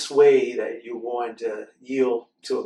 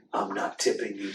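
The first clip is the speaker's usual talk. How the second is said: a hint of a grumbling bear, softer; grumpy Bruce; 3 semitones lower, 4 dB quieter than usual. Bruce refusing the mice, low grumpy mutter. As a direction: mutter it sourly. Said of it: "says Bruce".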